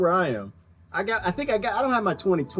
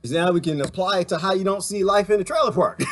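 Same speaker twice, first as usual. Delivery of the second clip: louder, preaching point; raised voice; 4 semitones higher, 3 dB louder than usual. Real, not acted. Preaching to viewers about seeing poverty, raised voice. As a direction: push it out like a sermon. Shouting in his rant.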